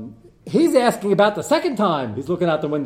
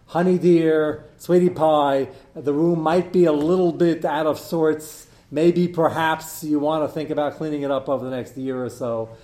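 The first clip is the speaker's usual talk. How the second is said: mock sweet parent; 3 semitones higher, 6 dB louder than usual. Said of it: "you said it the nicest possible way".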